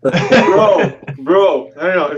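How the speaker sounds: talking through a mouthful; words round a bite of food; mouth full. Real, not acted. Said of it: "Excuse me with my mouth full".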